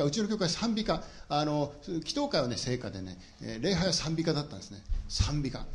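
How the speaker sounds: normal talking voice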